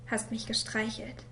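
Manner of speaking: langsam, leise geflüstert; zögernd hauchen. Acted. Kind erzählt vom Missbrauch. (Kind erzählt dem Vater, langsam geflüstert)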